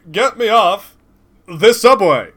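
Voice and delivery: high, loud whiny New York yell; Seinfeld-style shout. Acted. Old man trapped on the subway, shouting a high whiny Seinfeld yell. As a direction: yell it like a frantic sitcom New Yorker. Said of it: "Why does he speak like Jerry Seinfeld now?".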